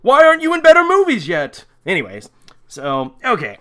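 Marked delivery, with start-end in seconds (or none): 0.0-1.6 loud, high hammed-up yell; mock scream. Victim screaming at Brad Pitt, mock scream. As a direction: wail it in mock outrage. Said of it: "All she does manage to scream".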